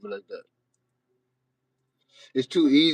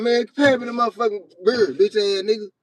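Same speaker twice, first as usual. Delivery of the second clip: high-pitched, animated at-home cussing; everyday street talk; 7 semitones higher, 3 dB louder than usual. Retold or imitated. Streamer imitating a Christian at home, rough everyday talk. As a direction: demand money in rough, unguarded street talk. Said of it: "Talk regular".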